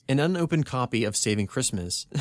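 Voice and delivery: usual speaking voice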